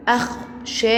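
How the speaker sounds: أخشاب as short "akh", then long "shaaa-bun"; syllable breakdown. Shown as a demonstration. Teacher breaks the word into sound syllables, slow stretched أخشاب. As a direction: split أخشاب after the kh and stretch the alif. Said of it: "فيها حرف ساكن وفيها مد بالألف".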